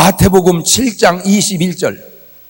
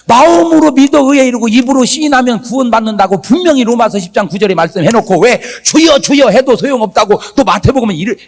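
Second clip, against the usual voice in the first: louder, pressing retold protest; arguing with God; 3 semitones higher, 4 dB louder than usual. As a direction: press the complaint point by point, indignantly. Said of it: "제가 막 따졌어요". (하나님께 따지듯 항의하는 말투)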